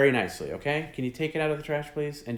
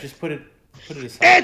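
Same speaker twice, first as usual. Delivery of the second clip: high pleading; 5 semitones higher, 11 dB louder, faster than usual. Real, not acted. Pleading rising.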